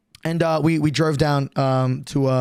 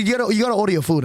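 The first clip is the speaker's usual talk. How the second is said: put-on Asian accent; 3 semitones higher, much faster than usual. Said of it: "putting a bit of an accent".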